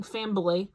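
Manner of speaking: "fambly" said low, with the m and b run together; southern fambly. Retold or imitated. Grandma weeping, saying "fambly" in a southern drawl. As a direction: say "fambly" in two syllables. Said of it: "southern style accent and all the weeping".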